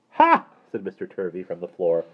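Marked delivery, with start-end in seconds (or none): 0.1-0.5 very high, loud "Ha!"; scornful interjection. A narrator's reading. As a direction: cut in with a high, loud burst. Mister Turvey interjects from the floor.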